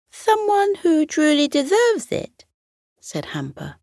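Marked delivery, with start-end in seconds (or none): 0.1-2.4 high worried echoed question; anxious echo. Acted.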